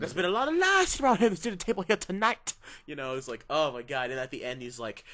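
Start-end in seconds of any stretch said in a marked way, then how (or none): 0.0-2.5 loud, high hammed-up rant; mock DiCaprio rant. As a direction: rant like a villain at dinner. Quoting DiCaprio's monologue, shouting.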